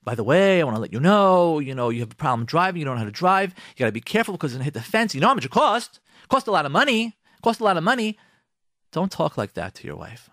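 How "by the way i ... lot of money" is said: harsh lecturing husband. Retold or imitated. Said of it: "don't make a big issue out of it".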